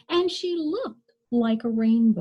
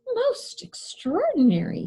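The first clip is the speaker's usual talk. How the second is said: breathy amazed doctor, pitched up; doctor's exclamation; 7 semitones higher than usual. Acted. Doctor examines the striped girl, hushed amazement. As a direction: marvel at it like a puzzled doctor. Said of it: "he exclaimed".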